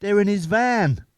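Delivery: mate's slow knowing quip; deadpan joke. Retold or imitated. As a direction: drag out the pun slowly. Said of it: "my mate went".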